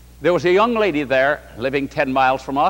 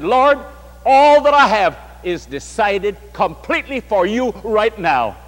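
louder, higher earnest surrender; fervent vow; 4 semitones higher, 4 dB louder than usual. Retold or imitated. The convert answering Jesus, impassioned and loud. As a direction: declare it to the Lord with conviction. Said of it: "He said".

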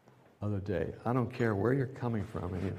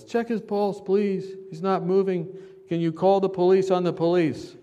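higher, urgent crowd calls; imitating the crowd; 6 semitones higher, 4 dB louder than usual. Preacher voicing the crowd begging the officer, urgent calls. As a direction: call out like frightened bystanders. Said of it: "the crowd says".

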